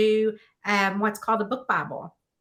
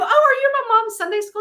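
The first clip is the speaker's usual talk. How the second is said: high-pitched, louder, delighted asking; eager retold question; 13 semitones higher, 5 dB louder than usual. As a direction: act out an eager guess to a stranger.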